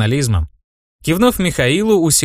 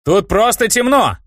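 raised, slow, higher call; loud; 9 semitones higher than usual. A narrator's reading. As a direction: say it loudly for the room. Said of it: "громко произнёс я". (громко, нарочито медленно)

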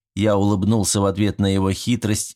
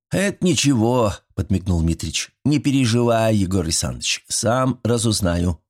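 put-on a sly old man coaxing his neighbor; folksy old villager. Old Mitrich inviting Yegor over for fish, chatty and folksy.

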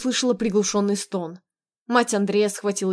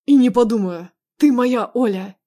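loud, possessive insistence; raised, emphatic claim on her; forceful refusal; 3 semitones higher, 7 dB louder than usual. Acted. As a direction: refuse outright, punching each phrase. Husband refuses to let her go.

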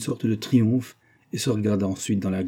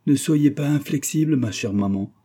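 higher-pitched daughterly coaxing; a tender plea, pitched up at first; 6 semitones higher, 3 dB louder than usual. A narrator's reading. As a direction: try hard to sound sweet to mother. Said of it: "pour devenir câline et tendre".

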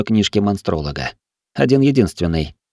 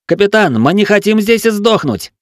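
high, loud mutinous shout; angry protest; 11 semitones higher, 3 dB louder than usual. A narrator's reading. The cat sides with the mutineers, angry shout. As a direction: join the mob and shout. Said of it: "подал голос и лихой кот".

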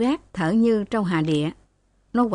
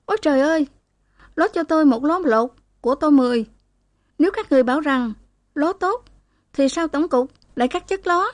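shrill screaming wail; 7 semitones higher, faster than usual. A narrator's reading. Girl wailing at the staff in the living room, high screeching. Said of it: "tiếng gào the thé".

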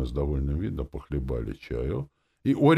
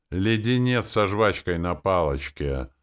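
expert's tone; 5 semitones higher, 6 dB louder, slower than usual. A narrator's reading. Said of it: "тоном эксперта произнёс Томми".

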